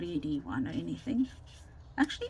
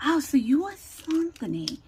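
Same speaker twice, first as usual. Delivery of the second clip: mock-surprised question, higher and louder; imitating a colleague's surprised "oh, so it's you"; retold surprise; 7 semitones higher, 6 dB louder than usual. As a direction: playfully act out someone taken aback. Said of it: "he says, uh, uh, to me".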